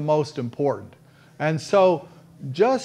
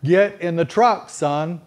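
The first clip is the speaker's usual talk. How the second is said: louder, rising call to get in; firm call; 3 dB louder, slower than usual. Shown as a demonstration. Father calling his son to the truck, firm and loud. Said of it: "my response to".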